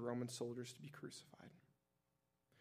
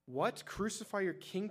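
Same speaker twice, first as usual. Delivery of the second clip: incredulous; 7 semitones higher than usual. A narrator's reading. Pilate to the crowd, an incredulous high question. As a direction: pitch leaps much higher in disbelief. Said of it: "Pilate asked".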